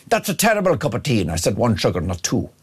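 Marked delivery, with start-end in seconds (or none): 0.1-1.2 higher-pitched mock-indignant Irish accent; hammed-up Irish grumble; Roy Keane, Irish accent. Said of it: "I'm allowed to do the Irish accent". 1.6-2.5 low mock-grumpy Irish accent; lightly put-on Irish complaint; a touch of Irish grumbling; Roy Keane, Irish accent. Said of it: "I'm allowed to do the Irish accent".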